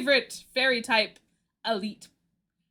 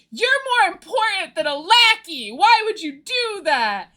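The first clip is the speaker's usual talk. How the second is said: higher, mock-exasperated protest; imitated upset scolding; 7 semitones higher, 3 dB louder than usual. Corbeau scolds her for risking herself over a lackey, mock upset. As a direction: play at scolding someone you care about.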